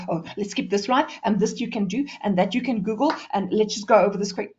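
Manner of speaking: hurrying through the last slides; rushed, out of time. Acted. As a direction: rattle it off as if time is running out. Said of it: "when you run out of time".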